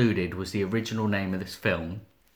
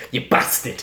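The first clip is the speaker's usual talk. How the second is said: whispered gravelly impression; breathy hoarse doll impression; Neil Morrissey voice; 4 dB louder than usual. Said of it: "He turns into Neil Morrissey".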